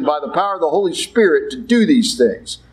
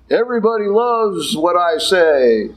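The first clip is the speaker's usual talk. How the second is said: sarcastic boast. Acted. Sarcastic boast mocking himself.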